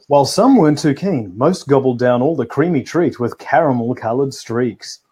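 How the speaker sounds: reading it like the evening news; formal news read, lightly done; newsreader voice. Real, not acted. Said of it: "There's my newsreader voice again".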